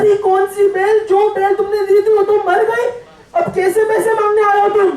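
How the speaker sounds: indignant. Acted. Buyer refusing to pay the ox's seller, indignant. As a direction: push back hard at an unfair demand. Quarrel over payment for an ox.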